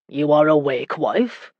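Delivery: mildly surprised question, rising at the end. Acted. Husband finds his wife awake, surprised. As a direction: ask with a touch of surprise. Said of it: "The surprise in his voice".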